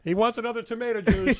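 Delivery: high, loud mock assistant; squeaky servant voice. Mock assistant passing on order.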